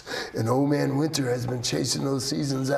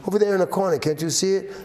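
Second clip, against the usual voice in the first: urgent pointing out; 6 semitones higher, much faster than usual. Acted. Coyote urges Winter to look.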